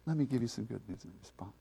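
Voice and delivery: a hint of God weary of our lies, turning gentle; voicing God. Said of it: "he looked at us and said".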